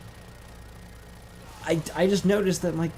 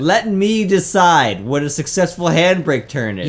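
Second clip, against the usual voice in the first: loud; 3 semitones higher, 9 dB louder than usual. Pretend. Loud mock indignation.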